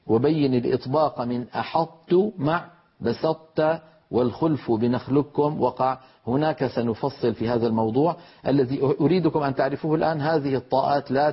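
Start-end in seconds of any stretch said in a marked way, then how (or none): 0.1-6.0 slow, measured verse reading; poem recitation. Shown as a demonstration. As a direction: chant the didactic verse calmly. Quotes the Jazari poem.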